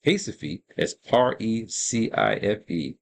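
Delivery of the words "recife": "Recife" with the R said as an H; Portuguese pronunciation. Shown as a demonstration. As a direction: say "Recife" the Portuguese way, opening on an H sound. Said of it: "pronounce the R there in Portuguese".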